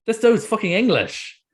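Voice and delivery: high, loud, slowed disbelief; shocked realization. Retold or imitated. Retelling finding out the actor is English, stunned. Shocked discovery retold loudly.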